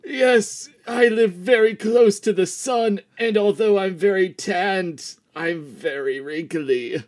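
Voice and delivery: lightly voiced creaky elder, slowing at the end; a hint of a very old man; ancient old captain. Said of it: "you sound and look so ancient".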